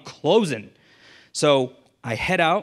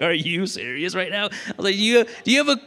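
incredulous outburst, pitched higher and louder; fed up and ready to snap, raised high; exasperated disbelief; 7 semitones higher, 3 dB louder than usual. Retold or imitated. Salesman retelling his outrage at a counter pitch, incredulous and loud.

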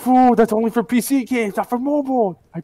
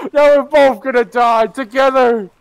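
playful yelling; 3 semitones higher, 4 dB louder than usual. Acted. Chasing teammate, yelling.

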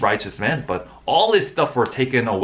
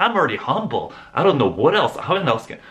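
defensive protest; 4 semitones higher, 4 dB louder than usual. Retold or imitated. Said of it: "Then I was like".

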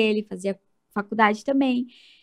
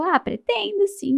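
higher and slower, breezy yes; casual reply; 10 semitones higher, slower than usual. Retold or imitated. Telling the nurse she plans more kids, high and easy. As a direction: toss it off lightly, unaware of news.

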